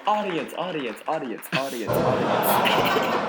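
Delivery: fading whispered echo of audience. Pretend. Echoing the host's last word, fading out.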